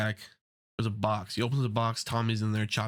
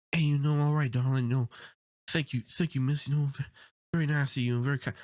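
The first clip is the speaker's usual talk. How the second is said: higher, lightly voiced gracious gangster; mock charm, thanking a lady sweetly; polite and generous; 4 semitones higher than usual. Tom Hardy's gangster thanking a woman, higher mock politeness. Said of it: "he can be very generous".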